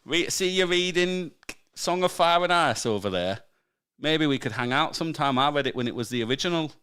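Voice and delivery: hammed-up northern chat-up; stupid northern accent. Playing co-host chatting someone up on the tube, silly northern accent. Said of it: "can't do a stupid northern accent".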